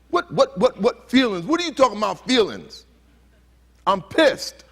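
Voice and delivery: loud, high, sputtering indignation; angry grown man. Retold or imitated. Speaker acts a grown man rejecting hurt feelings, loud angry outburst. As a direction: imitate an outraged man stammering, then exploding. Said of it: "he'll probably cuss me out".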